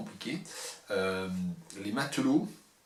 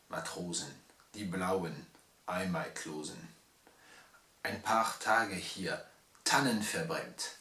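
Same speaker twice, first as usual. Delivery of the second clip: slow, measured reading of a German poem; unhurried poetry reading in German; poem recitation; slower than usual. Acted. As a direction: recite it slowly, line by line, with pauses. Reads the German poem aloud.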